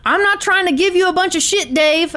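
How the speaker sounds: lightly acted gunman on the phone; Tony. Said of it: "Then Tony takes back over".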